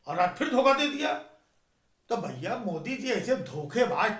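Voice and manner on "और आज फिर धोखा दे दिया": excited retort. Retold or imitated. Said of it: "बोला".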